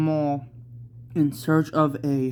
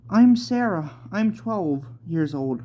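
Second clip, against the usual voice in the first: put-on child voice; 3 semitones higher than usual. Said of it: "said Sarah".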